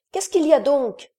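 high, loud frightened question; a little one afraid of the noise; scared child. A narrator's reading. Child asks what is happening, high and scared.

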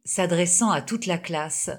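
usual speaking voice

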